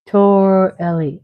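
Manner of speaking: Torelli stretched slowly as tor-ELL-ee; practicing the word. Shown as a demonstration. Host practicing an unfamiliar Italian name, slow careful pronunciation. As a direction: draw out "Torelli" in two careful pieces. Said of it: "I like practicing words".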